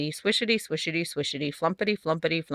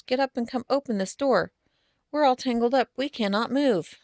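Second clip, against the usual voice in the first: fairy voices; 4 semitones higher than usual. Acted. Fairies and household things calling.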